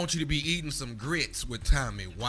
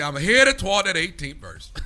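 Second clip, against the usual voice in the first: imitating daddy; 2 semitones higher, 7 dB louder than usual. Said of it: "My daddy say".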